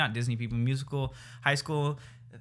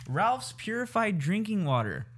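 mock ad read; 5 semitones higher than usual.

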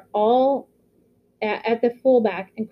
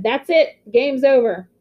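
loud, raised referee's call; referee shouting; 4 semitones higher, 3 dB louder than usual. Acted. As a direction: call the game over with a shout. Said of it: "and shouted".

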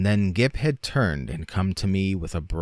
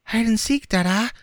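put-on much higher, louder little boy calling; excited child's cry; 4 dB louder than usual. A narrator's reading. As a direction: squeal it like a playful child. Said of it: "cried Gip".

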